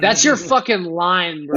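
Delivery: drawn out through laughter; amused, laughing it out. Real, not acted. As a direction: laugh the line slowly. Laughing while repeating the friend's line.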